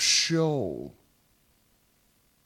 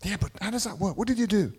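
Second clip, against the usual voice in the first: lightly acted questioner, a little higher; puzzled questioner; 3 semitones higher, much faster than usual. Baffled onlookers asking how does that work, lightly acted puzzlement. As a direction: ask it as a baffled outsider would.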